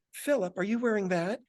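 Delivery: high, disapproving mom; mother's voice. Retold or imitated. Mother checking her son's outfit, high mom voice. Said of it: "That's my mother's voice".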